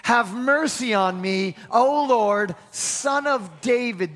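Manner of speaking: slow, deliberate line for the congregation to repeat; slow call-and-response. Shown as a demonstration. Preacher leading the congregation to repeat, slow and deliberate. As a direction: lead the church through it slowly. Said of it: "Say that with me".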